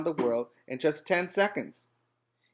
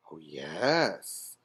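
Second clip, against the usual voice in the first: much lower, smug dragon answer; proud dragon; 10 semitones lower, 4 dB quieter than usual. A narrator's reading. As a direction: preen like a flattered dragon.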